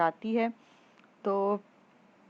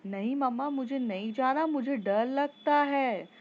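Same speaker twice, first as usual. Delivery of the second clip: scared whiny daughter; 4 semitones higher, 4 dB louder than usual. Acted. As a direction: whimper it like a scared child refusing to go. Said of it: "वो आवाज़ निकाल के बोलती".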